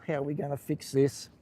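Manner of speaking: slow, drawn-out grossed-out groan; a touch of mock disgust at a patient's foot. Nurse walking in on a nasty case, slow disgusted groan. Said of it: "I go".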